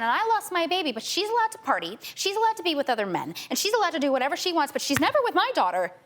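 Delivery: getting heated and pressing each allowed; rising indignation. Real, not acted. Mother's outrage at adoptive mother.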